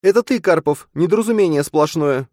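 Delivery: high, loud contempt, stress on ты; scornful yell. Acted. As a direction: spit it at him, hitting ты. Nastya insulting Matvey.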